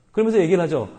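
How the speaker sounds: ordinary talk, nothing marked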